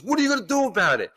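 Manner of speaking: mock angry challenge from the woman; challenging. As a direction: dare him to do something. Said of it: "And she goes".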